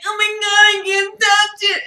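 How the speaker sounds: high, loud mock wail; retold crying. Seeing the hornet picture on the spray, mock crying. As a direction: wail it in squeamish panic. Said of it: "sitting there crying".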